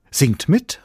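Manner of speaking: high, loud rallying call. A narrator's reading. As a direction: call them to join the singing. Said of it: "rief er".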